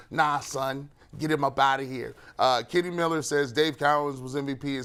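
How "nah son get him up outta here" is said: put-on light New York accent. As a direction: say it like a New Yorker. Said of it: "I imagine you sounding that like in a New York accent".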